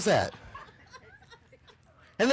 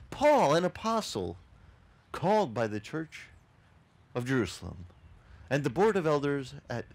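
wrong mock quote. Shown as a demonstration. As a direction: recite the wrong version with playful pomp. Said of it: "d-, does he say that?".

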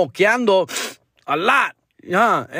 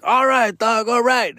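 put-on excited drunk guy; 5 semitones higher, slower than usual. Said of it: "He got all excited".

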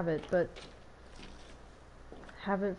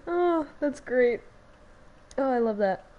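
delighted; 4 semitones higher, 4 dB louder than usual. Real, not acted. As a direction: savour it with delight. Delighted reaction.

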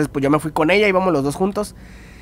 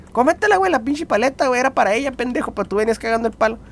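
friend scolding; 5 semitones higher, 3 dB quieter than usual. Retold or imitated. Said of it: "me dice".

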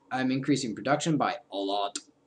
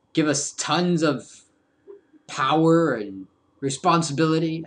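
teasing suspense voice; cliffhanger teaser; 5 dB louder than usual. Pretend. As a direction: build it up dramatically.

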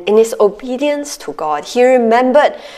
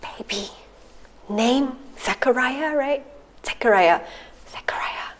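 mouthing words; 2 semitones higher, 9 dB quieter than usual. Retold or imitated. Miming loudly to a mute man.

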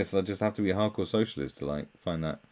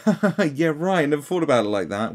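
mock laughing agreement; 8 semitones higher, 8 dB louder than usual. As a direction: fake hearty laugh, a bit louder and higher. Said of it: "someone will go".

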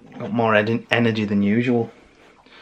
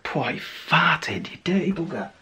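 pet talk; 6 semitones higher, 7 dB quieter than usual. Real, not acted. Teasing the pet.

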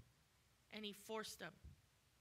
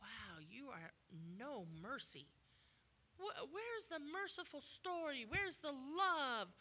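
lightly whiny, higher voice; mock complaint; 4 semitones higher than usual. Invalid man whining at Jesus, mock self-pity. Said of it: "maybe he's like".

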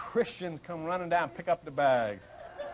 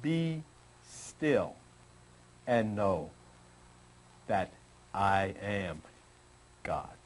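slow, much lower, solemn divine voice; God's voice; 13 semitones lower, 4 dB quieter, much slower than usual. Shown as a demonstration. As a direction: speak as God, deep and slow. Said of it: "He says".

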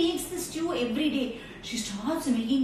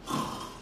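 snoring; 7 dB quieter than usual. Acted. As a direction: play grandma fast asleep. Grandmother has gone to sleep.

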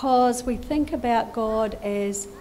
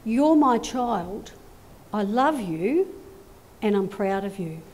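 tender blessing; 4 semitones lower than usual. Acted. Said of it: "God says to you".

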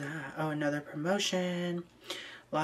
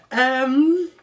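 high, loud laugh; 8 semitones higher, 9 dB louder than usual. Real, not acted. Seeing a suspicious photo, high loud laugh. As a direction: giggle up high in disbelief.

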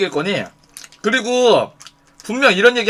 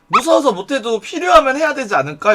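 mock-innocent higher-pitched question; goading suggestion, pitched up; needling; 5 semitones higher than usual. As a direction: needle them with a raised, teasing lilt. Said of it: "너무 약 올릴 것 같아".

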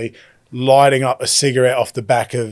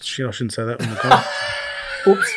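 real embarrassed laugh through the words; laughing at a slip; 4 dB quieter than usual. Real, not acted. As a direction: laugh it off after blurting too much.

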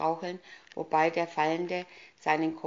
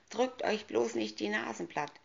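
shouting; 5 semitones higher than usual. Acted. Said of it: "schrie sie die Männer an".

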